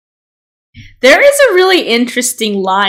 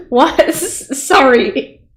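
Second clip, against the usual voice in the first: laughing; much slower than usual. Real, not acted. Laughing at an odd chat message.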